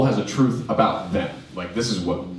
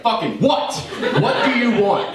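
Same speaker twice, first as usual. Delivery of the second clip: annoyed wife; 11 semitones higher than usual. Retold or imitated. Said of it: "finally she's like".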